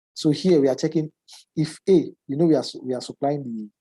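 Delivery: congested, muffled voice from a cold. Real, not acted. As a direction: speak with a blocked nose. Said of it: "if my voice is a little bit muffled".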